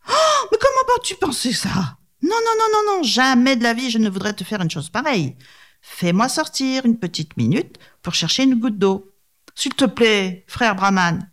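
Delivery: protestation très aiguë, mielleuse; tigre faussement innocent. Acted. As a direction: jure l'innocence d'une voix perchée. (tigre qui proteste d'une voix très aiguë)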